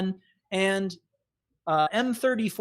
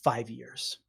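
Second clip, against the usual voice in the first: grim Kevin; 4 semitones lower than usual. Acted. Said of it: "he goes".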